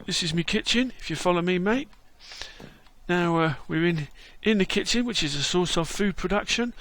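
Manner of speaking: London Bob. Acted. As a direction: greet him like a chirpy London mate. Voices London Bob character.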